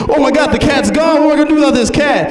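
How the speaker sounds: high, rushed fretting; hammed-up high-pitched alarm; panicked friend. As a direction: act out a panic over a lost pet. Acted friend panics over lost cat.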